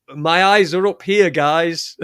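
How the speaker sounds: mock indignant woman; loud, mock offended rebuke; mock woman's retort. Reading a caption aloud as a mock offended woman. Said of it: "the line above it says".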